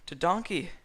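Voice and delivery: high, loud surprised cry; startled at the door; high yelp of surprise. A narrator's reading. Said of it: "Shrek said with a surprise".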